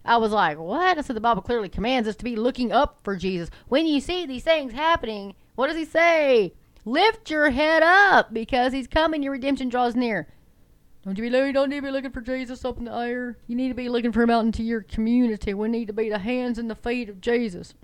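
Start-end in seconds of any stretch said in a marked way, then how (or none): 0.6-10.3 indignant comeback, pitch climbing high; raised, emphatic scripture-quoting rebuttal; impassioned retort. Retold or imitated. Acted indignant retort to the pastor. 11.0-17.7 mock Texas preacher, pitched up; hammed-up Texas accent, higher than usual; bad Texas accent. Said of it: "That's a bad Texas accent".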